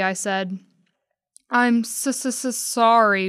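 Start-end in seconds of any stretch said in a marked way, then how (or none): 1.5-3.3 slow stuttering mock sob; lightly acted blubbering; blubbering apology. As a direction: blubber the apology while coming to. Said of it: "blubbered Sweet Pea".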